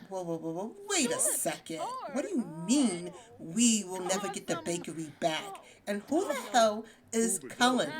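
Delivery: mock outraged daughter demanding answers; indignant disbelief. Luna overhearing Dad about the bakery, mildly indignant. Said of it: "and she hears him. And she's like".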